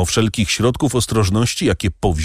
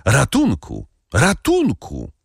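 second cry jumps much higher; crying for help; 5 semitones higher, slower than usual. A narrator's reading. Nurse running to the door, screaming for help. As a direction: call for help, rising in panic. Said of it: "wołając".

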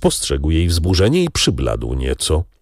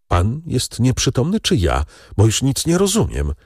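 higher, bewildered cry of confusion; dazed exclamation; 7 semitones higher than usual. A narrator's reading. Kasia, stunned by his proposal, exclaims in a daze. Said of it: "wykrzyknęła w otumanieniu".

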